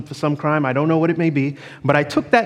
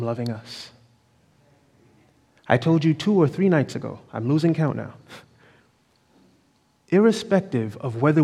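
tender reassurance; 4 dB quieter than usual. Real, not acted. Preacher reassures the congregation.

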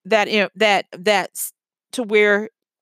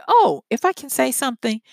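"Oh, if I can say something" opening a touch higher, steady and sure; polite but firm; 4 semitones higher, faster than usual. Shown as a demonstration. Ending a chat with a stranger, cutting in politely but firmly. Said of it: "politely, but with firm confidence".

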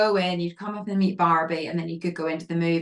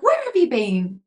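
higher-pitched imitation of an irate presenter; Vanessa Feltz, angry; 4 semitones higher, 4 dB louder than usual. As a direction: scold a latecomer, retold. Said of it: "Like, really angry".

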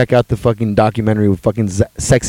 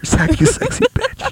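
mock thirsty; slower than usual. Thirsty calling out to Zac.

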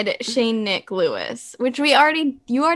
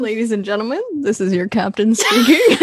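airport announcement; 5 dB louder, faster than usual. Pretend. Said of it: "that was the captain talking".

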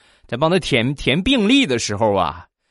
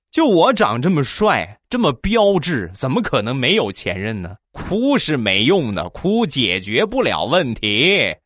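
smug boast; 5 semitones higher than usual. Retold or imitated. Smug self-praise to crying guy.

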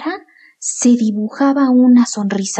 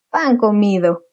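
boastful. Acted. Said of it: "dijo el hermano presumiendo".

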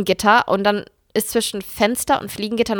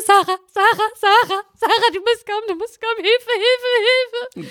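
panicked call for help; 12 semitones higher than usual. Retold or imitated. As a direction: call your sister in a panic. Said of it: "Ich so".

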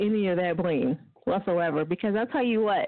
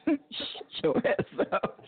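catchphrase; slower than usual. Shown as a demonstration. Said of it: "That's my favorite line".

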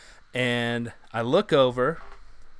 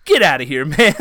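laughing through the quote; amused laughing quote; 7 semitones higher, 9 dB louder than usual. Real, not acted. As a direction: crack up while saying it. Laughing while quoting Chappelle.

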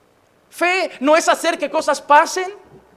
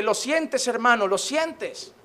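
softer, slower, lower mock whisper-like coaxing; mock hushed mystic; 4 semitones lower, 6 dB quieter, slower than usual. Preacher parodying emotional worship in a soft mock voice. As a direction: coax it like a mystic asking if you feel it.

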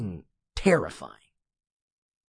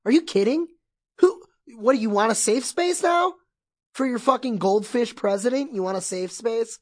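high, loud angry outburst at a hypocrite; angry retort; 7 semitones higher, 5 dB louder than usual. Retold or imitated. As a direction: let them have it, furious and loud. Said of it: "I'll just go like".

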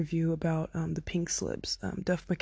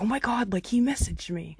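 higher-pitched thrilled announcement; excited retelling; 5 semitones higher, 4 dB louder than usual. Retold or imitated. Telling my friend he messaged me, excited. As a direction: retell it as breaking news to a friend.

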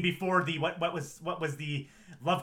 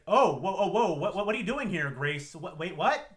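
startled; 3 semitones higher, 6 dB louder than usual. Retold or imitated. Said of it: "It's like".

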